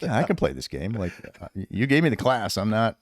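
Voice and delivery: retold cocky taunt; cocky defiance. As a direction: sass the sergeant, enjoying the game. Taunting sergeant through door.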